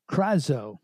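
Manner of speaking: krazo said slowly and carefully, KRAH-zo; Greek word krazo. Shown as a demonstration. Preacher teaching the congregation the Greek krazo, slow and clear. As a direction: spell out the Greek krazo for the listeners. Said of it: "the word there in the Greek".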